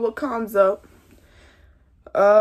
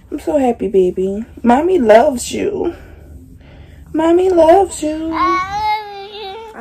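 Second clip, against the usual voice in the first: loud loving call; 6 semitones higher, 6 dB louder than usual. Real, not acted. Mother loudly calls her love to her unborn baby.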